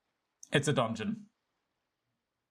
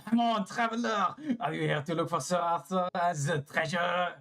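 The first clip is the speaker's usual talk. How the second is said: higher-pitched French character voice; French accent; 4 semitones higher than usual. Acted. Game character greeting a traveler, in a French accent. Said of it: "Everybody's French".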